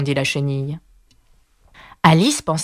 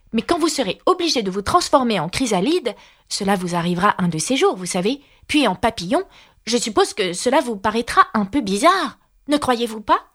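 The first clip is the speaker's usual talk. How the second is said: higher-pitched Alice; Alice, polite and earnest; 4 semitones higher than usual. Acted. (Alice, voix aiguë et polie)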